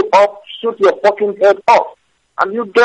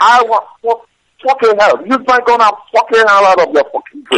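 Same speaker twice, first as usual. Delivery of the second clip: furious threat; 6 semitones higher than usual. Real, not acted. Man threatening a caller who keeps insulting him, furious. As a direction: spit out the threat in a rage.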